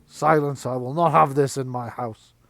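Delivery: loud, firm rebuke; stern mistress. Acted. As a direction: lay down the law in your house. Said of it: "The mistress is banging on the table".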